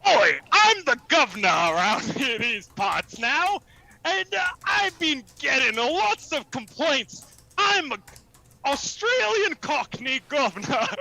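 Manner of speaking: hammed-up Australian-tinged Cockney; Cockney accent. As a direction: play a blustering Cockney governor. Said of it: "Vegas is doing a Cockney accent".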